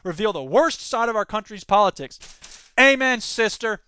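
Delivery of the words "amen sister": emphatic amen. Shown as a demonstration. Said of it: "I say that in a kind of familial way".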